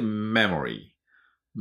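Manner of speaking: "メモリー" with a long hummed m at the start; "メモリー" slowly, English-style, lingering on the first m; held initial M. Shown as a demonstration. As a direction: press the lips and hum into "メモリー". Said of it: "Mは唇をしっかり".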